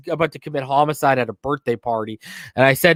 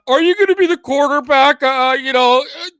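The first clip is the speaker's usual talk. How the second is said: mocking reporter; 8 semitones higher, 3 dB louder than usual. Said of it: "and you wanna talk about".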